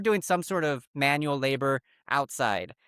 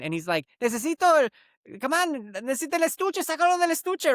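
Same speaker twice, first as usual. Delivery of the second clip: retold dad yelling; 7 semitones higher than usual. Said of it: "the dad was yelling at his son".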